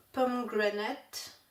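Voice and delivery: slow, careful English accent on "pomegranate". Shown as a demonstration. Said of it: "Vous remarquez mon magnifique accent". (accent anglais appuyé sur « pomegranate », lentement)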